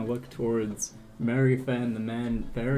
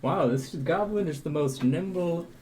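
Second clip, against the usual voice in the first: higher, lilting admiration; impressed adventurer; 5 semitones higher than usual. Acted. Beryl praises the nimble goblin to the captain, impressed. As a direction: marvel aloud in character.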